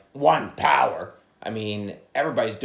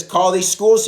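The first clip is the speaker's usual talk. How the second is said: quoting Portnoy; 7 semitones higher, 9 dB louder, slower than usual. Retold or imitated. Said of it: "Portnoy says".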